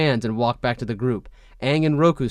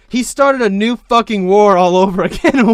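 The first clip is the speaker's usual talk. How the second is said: angry rant; 8 semitones higher, 9 dB louder than usual. Acted. Kyoshi ranting.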